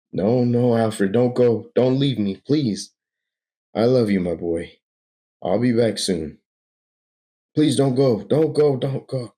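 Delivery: clinging to someone leaving; pleading. Acted. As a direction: Bruce begging Alfred not to go. Bruce begs Alfred stay.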